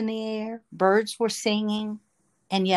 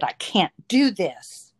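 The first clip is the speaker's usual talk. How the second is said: slowed, pressed refusal pushed out in anger; angry outburst; 3 dB louder, slower than usual. Retold or imitated. At the altar, refusing the man's prayer, angrily. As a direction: let the anger burst out, a bit slower. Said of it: "this angry voice came out of my mouth".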